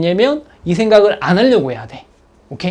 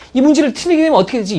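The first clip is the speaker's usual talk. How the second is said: anxious worry; 6 semitones higher, 4 dB louder, faster than usual. Retold or imitated. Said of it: "이런 생각이 떠오르면 절대 안 돼".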